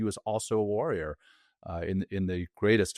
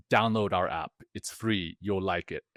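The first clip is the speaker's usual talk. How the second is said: put-on Dutch accent. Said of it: "In, in this really strong Dutch".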